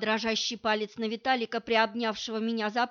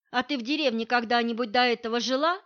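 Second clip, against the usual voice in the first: suspicious; 3 dB louder, faster than usual. Acted. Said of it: "подозрительно спросила я".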